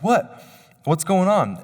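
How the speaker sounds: jolted from sleep, "What?" shooting up high; startled awake. Retold or imitated. Husband jolted awake by his wife, startled and confused. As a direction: snap awake, confused and alarmed.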